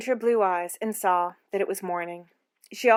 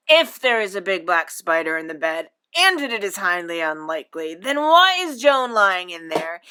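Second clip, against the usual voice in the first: stern reasoning; 7 dB louder than usual. A narrator's reading. Father reasoning sternly with daughter.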